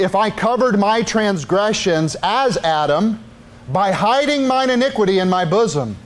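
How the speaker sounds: scripture reading. Acted. Reads scripture slowly.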